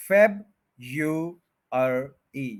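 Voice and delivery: फेब, यू, अर, ई in four slow parts; Y variant. Shown as a demonstration. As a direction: sound out each piece: फेब, यू, अर, ई. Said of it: "वाई भी बोला गया है". (फेब यू अर ई, अलग-अलग)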